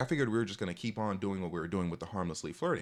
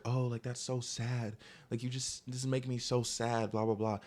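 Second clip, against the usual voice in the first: higher, drawn-out retold sympathy; mock pitying; 3 semitones higher than usual. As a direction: imitate someone cooing how sad it is. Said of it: "trying to convince me to, like, be sad".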